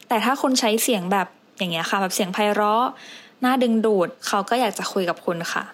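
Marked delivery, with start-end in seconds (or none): 0.1-2.9 sweet, inviting delivery; demonstrating a friendly, melodious tone; pleasant, attractive voice. Shown as a demonstration. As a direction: say it pleasantly to draw the listener in.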